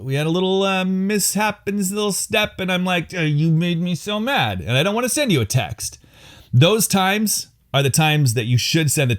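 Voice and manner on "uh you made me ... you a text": higher, lightly hammed-up grumble; mock sulk. Husband refusing to text wife after a mishap, higher mock-sulky voice. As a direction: play a petulant refusal, only half serious. Acting out sulking at his wife.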